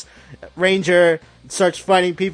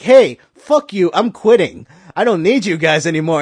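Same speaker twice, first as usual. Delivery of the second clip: rude quitting shout; 6 dB louder than usual. Retold or imitated. Black Ranger quits the team.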